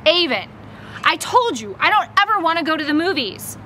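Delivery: annoyed, insisting; angry. Acted. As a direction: put a touch of anger in it. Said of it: "I knew he was angry".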